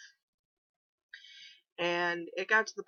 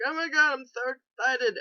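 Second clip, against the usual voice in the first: high, loud gush of excitement; mock thrilled squeal; excited; 8 semitones higher, 5 dB louder than usual. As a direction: squeal it like you just arrived in Chicago. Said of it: "we're all like".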